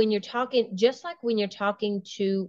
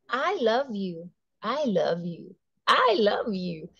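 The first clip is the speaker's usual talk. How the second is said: said differently each time. Shown as a demonstration. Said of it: "and say it differently".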